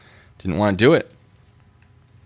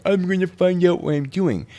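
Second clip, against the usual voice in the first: clueless guy voice; 10 semitones higher, 6 dB louder than usual. Retold or imitated. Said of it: "some lone guy being like".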